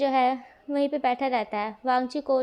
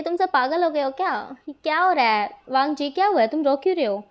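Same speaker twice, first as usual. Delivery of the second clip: mildly agitated retold questioning, a bit louder; slightly raised, insistent questions with falling ends; exasperated, worried mother; 2 semitones higher, 4 dB louder than usual. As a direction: lightly act a mother demanding answers. Worried mother questions crying children.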